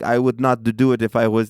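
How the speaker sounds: put-on light Arab accent taxi driver; a hint of an Arab accent. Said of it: "I'm talking in an Arab voice".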